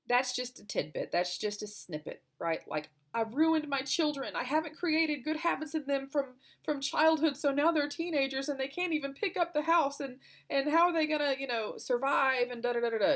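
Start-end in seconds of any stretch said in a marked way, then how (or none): 3.1-13.1 higher, pressing voice of self-reproach; guilty self-blame. Retold or imitated. Mom blaming herself for her teenagers' habits, distressed self-reproach. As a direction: let the worries pile up, pitched high.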